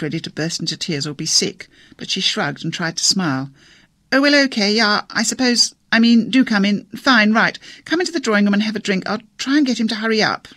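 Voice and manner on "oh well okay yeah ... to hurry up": higher, louder, rattled and fumbling; flustered near-hysteria. A narrator's reading. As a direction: gabble it out like she might burst into tears. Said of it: "incipient hysteria".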